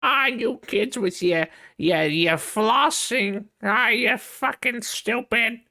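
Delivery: very high, slow cranky voice; grumpy old man. Retold or imitated. Mocking a cranky old man scolding kids, high and slow. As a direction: shake your fist at the kids. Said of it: "Not even like".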